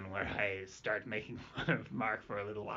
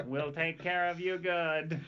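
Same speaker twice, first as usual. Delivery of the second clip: Coneheads alien voice; 4 semitones higher, slower than usual. Pretend. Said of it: "you sound like the Coneheads".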